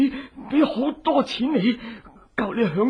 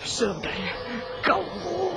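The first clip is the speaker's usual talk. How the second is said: desperate cry to God; 5 semitones higher than usual. Acted. Captive cries to God.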